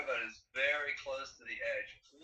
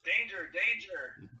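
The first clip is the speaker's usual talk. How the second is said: robot voice; 5 semitones higher, 6 dB louder, much slower than usual. Retold or imitated. Quoting the Lost in Space robot.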